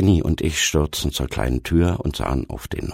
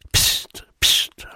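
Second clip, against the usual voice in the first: short voiceless "psst"; hushing psst. A narrator's reading. Boy warning his two friends upstairs, hushing. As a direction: shush your friends. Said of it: "machte ich zu den beiden anderen".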